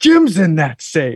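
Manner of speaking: mock full-throated alarmed yell, top of lungs. Retelling a scene where Clark yells: imitating Clark yelling at top of lungs. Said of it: "Clark just yells, really, at the top of his lungs".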